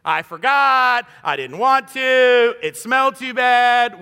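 mock a kid dodging a chore; whiny kid excuses. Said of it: "Just deny the command altogether".

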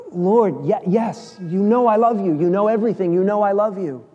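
exasperated, pushing back at the repeated question. Acted. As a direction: Peter worn out and exasperated, insisting. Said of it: "exasperated three times".

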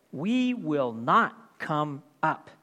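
slow, stubborn "We will not come up"; defiant refusal. Acted. Rebels refusing Moses' summons, slow and stubborn. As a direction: drag it out in flat defiance.

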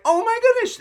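high, loud gushing fan; starstruck gasp. Pretend. Fan meeting a singer, squealing high and loud. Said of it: "meeting Taylor Swift and being like".

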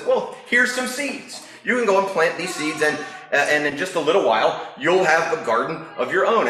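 lightly voiced friendly frog; Frog character. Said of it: "And so Frog says".

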